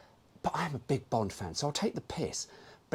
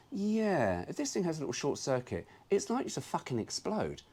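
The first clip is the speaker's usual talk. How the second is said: raised, wry realisation; sarcastic aside; lightly voiced sarcastic owner; 6 semitones higher than usual. Car owner realising the alarm explodes, lightly sarcastic. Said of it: "and you go".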